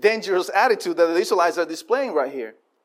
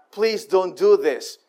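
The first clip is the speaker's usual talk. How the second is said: slow pleading; slower than usual. Acted. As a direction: beg them gently, word by word. Moses and Aaron imploring the people.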